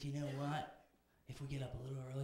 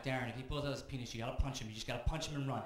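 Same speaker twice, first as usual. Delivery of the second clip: urgent advice; 6 dB louder than usual. Retold or imitated. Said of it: "And then I'm like".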